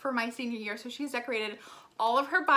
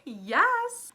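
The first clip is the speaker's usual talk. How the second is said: usual speaking voice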